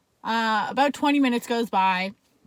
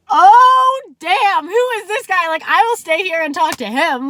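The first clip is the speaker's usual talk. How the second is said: much higher and louder, awestruck; swooning; 8 semitones higher, 12 dB louder than usual. Retold or imitated. Gushing at the gorgeous cop stepping out, swooning. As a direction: gush like you just saw a movie star.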